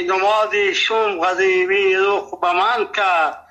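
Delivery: measured verse reading, slow at first; poetry recitation. Acted. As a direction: recite the couplets line by line, drawing out the opening.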